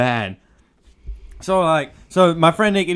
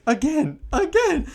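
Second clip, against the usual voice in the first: squeaky toy voice, much higher and laughing; 10 semitones higher, slower than usual. Retold or imitated. Retelling the toy's voice from the teacher's room, squeaky and high. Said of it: "all you hear is".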